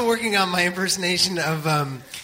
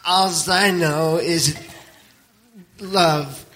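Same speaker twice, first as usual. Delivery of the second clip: slow, as if mouth full of peanut butter; Garrett, peanut butter mouth; much slower than usual. Retold or imitated. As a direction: drag the words through peanut butter. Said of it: "I'm working my Garrett impersonation".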